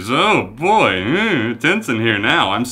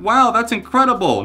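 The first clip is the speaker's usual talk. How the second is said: a higher, mock-awed gasp of praise; mock amazement; 9 semitones higher than usual. Mocking people who think the chart run is incredible, mock awe. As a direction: play the gullible fan, impressed. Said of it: "People think".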